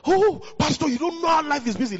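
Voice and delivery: high, lightly whining congregant; mock whiny excuse. Pastor mimicking a latecomer's excuse, lightly whiny. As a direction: imitate a lazy excuse-maker a little.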